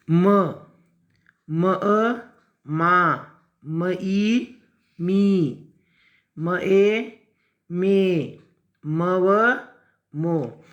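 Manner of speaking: measured syllable-by-syllable chant for pupils; spelling-out recitation. Shown as a demonstration. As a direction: spell it out, letter then joined syllable. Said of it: "सब बच्चे पढ़ेंगे".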